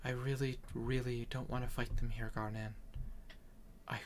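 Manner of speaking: soft, earnest in-character plea; worried healer. Acted. Healer asking Garnan not to fight, soft and worried. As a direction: gently admit you fear for them.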